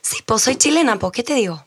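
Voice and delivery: mild mock Chilean; Chilean accent. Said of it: "siento que sí podría hacerlo". (acento chileno leve)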